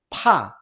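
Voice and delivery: "pa" with a strong puff of air on p; breathy p releasing into "pa"; strongly aspirated. Shown as a demonstration. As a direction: burst air out on the p of "pa". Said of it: "a strong puff of air".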